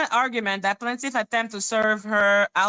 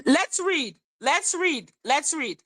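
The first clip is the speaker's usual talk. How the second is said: impatient repeat; 5 semitones higher than usual. Real, not acted. Impatient urging chat to read.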